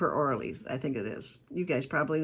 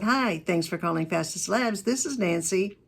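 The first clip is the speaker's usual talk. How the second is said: professional greeting. Shown as a demonstration. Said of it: "Just pick it up with".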